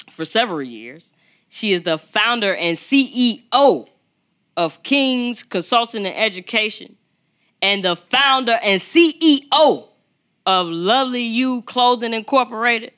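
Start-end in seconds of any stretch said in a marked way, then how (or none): 1.5-12.9 rising, louder announcer-style build; hype introduction. Acted. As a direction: talk her up like a big stage intro. Hyping up the guest's introduction.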